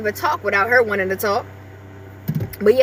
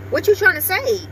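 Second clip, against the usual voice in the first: lilting, higher voice for the dog; high pet talk; 7 semitones higher than usual. Real, not acted. Owner coaxing her toy poodle to talk, sing-song. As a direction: coax the little dog to speak.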